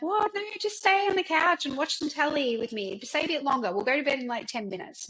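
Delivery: imitating her ex. Ex-boyfriend begging her to stay on the couch, pleading voice. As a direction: mimic him coaxing her back to the couch.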